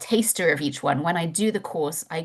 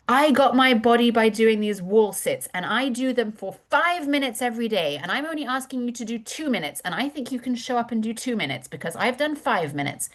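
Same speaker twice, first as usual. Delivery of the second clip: higher, proud boastful queen; inspiring queen; 5 semitones higher than usual. Retold or imitated. Instructor as queen motivating the class with her example. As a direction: show off to inspire them, a touch high. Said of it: "of a queen energy".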